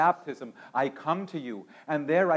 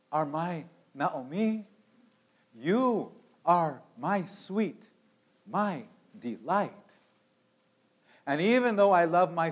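tender Jesus. Acted. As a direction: reassure her gently. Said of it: "he sighs and says".

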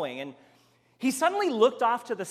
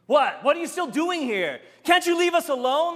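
angry venom; 8 semitones higher, 6 dB louder than usual. Retold or imitated. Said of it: "same angry venom".

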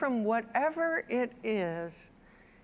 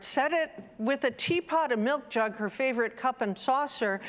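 story narration. Acted. Preacher reading a children's book to listeners, gently storytelling. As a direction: lightly read picture-book narration. Reads the picture book aloud.

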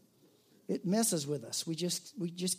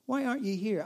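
tired echo; 4 semitones higher, faster than usual. Pretend. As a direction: let the plea fall away, half-resigned. Repeated plea, falling back.

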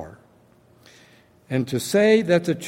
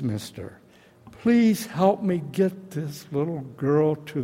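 desperate pleading; 3 semitones higher than usual. Retold or imitated. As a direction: beg him to save the child, in the telling. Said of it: "pleaded with me and said".

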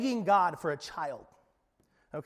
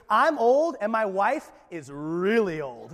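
louder mock complaint from Zechariah; voicing Zechariah; 3 dB louder than usual. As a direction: whine it like a grumbling old man. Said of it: "So he goes".

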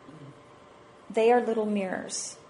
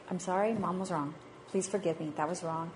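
sincere apology; 3 semitones lower, 8 dB quieter than usual. Retold or imitated. Mother apologizing to her children.

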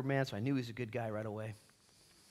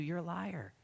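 chuckling through the words; laughing tease; 4 semitones higher, slower than usual. Retold or imitated. Preacher teasing the kid about lying, laughing. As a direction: tease him while laughing.

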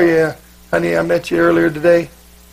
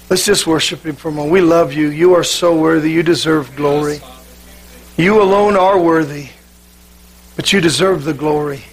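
prayer. Real, not acted. Leads the church in prayer.

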